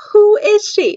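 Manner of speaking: high-pitched, indignant demand; jealous reaction. Retold or imitated. Woman seeing a rival greet her crush, jealous reaction. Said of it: "horrible reaction to her".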